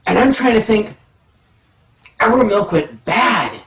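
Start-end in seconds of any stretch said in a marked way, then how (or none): 2.2-3.6 mock crying. Realizing the milk went bad.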